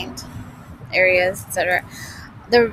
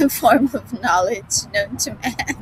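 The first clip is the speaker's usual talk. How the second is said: put-on English accent breaking into a laugh; mock-grand English accent, cracking up. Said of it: "in the English accent".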